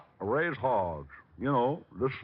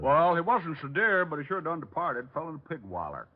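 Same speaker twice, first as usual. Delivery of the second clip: hillbilly put-on; 3 semitones higher than usual. Detective in disguise calling the psychic, country accent. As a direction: play the hog farmer yokel.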